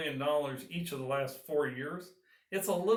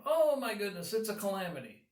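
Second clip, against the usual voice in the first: higher, hammed-up cry of alarm; mock panic; 6 semitones higher than usual. Farmer giving up on a problem, mock panic, higher pitch. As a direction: play the overdramatic farmer crying calamity. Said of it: "throwing your hands up in the air and just going".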